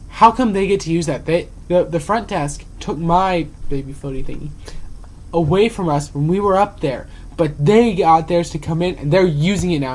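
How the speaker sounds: loud mock complaint; retold grumbling, punched key words; disgruntled patron. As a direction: imitate an indignant customer demanding fairness. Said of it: "the disgruntled patron".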